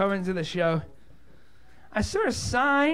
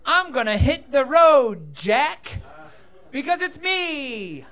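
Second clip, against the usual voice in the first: indignant, drawn-out exit line; huffy blind fella; 4 semitones higher, 5 dB louder, slower than usual. Pretend. Blind fella quitting the kitchen, hammed-up huffy exit. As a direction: storm off in mock offence. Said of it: "one impression I can do".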